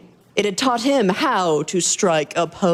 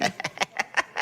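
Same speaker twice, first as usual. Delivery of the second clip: cackling; 10 dB quieter than usual. A narrator's reading. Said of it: "he started cackling".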